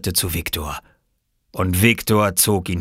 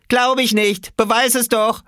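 high, raised challenge; daring taunt; 5 dB louder than usual. Acted. Small boy doubting the swimmer, high daring call. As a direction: dare loudly in a high child's voice.

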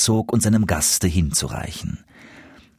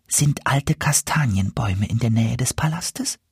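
much higher, kindly goose voice; goose Mimi; 7 semitones higher than usual. A narrator's reading. Goose Mimi calms the despairing dwarf, high and kind. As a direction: reassure him, she knows the herbs.

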